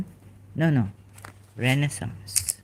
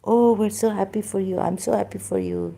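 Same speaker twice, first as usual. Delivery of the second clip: high, sugary mock delight; mock gushing; 5 semitones higher than usual. Imitating tarot readers gushing over viewers, high and sweet. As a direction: lay the fake joy on thick.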